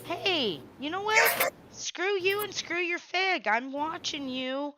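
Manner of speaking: mock angry. Mock-angry outburst at wife.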